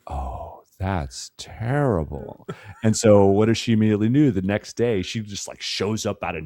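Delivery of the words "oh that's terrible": mock sympathy. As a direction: coo it with fake concern. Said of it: "she's like".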